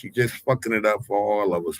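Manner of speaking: normal talking voice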